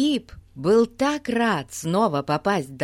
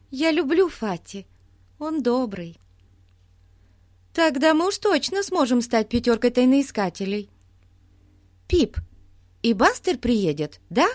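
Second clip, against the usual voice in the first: put-on high, eager child voice; bubbly young girl, proud; excited little girl; 6 semitones higher, 3 dB louder than usual. A narrator's reading. Голос Бетси в сказке. (восторженная девочка)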